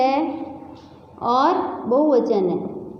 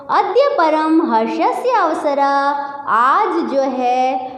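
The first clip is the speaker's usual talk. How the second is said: announcer's welcome; slower than usual. Acted.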